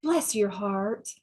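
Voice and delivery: slow, drawn-out Southern sympathy; sweet Southern accent. Acted. Therapist asked about her accent, slow sweet Southern accent. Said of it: "usually it's my".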